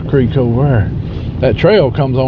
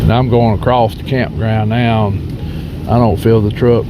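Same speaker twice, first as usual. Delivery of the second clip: sniffly voice. Real, not acted. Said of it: "I'm sorry about the sniffling".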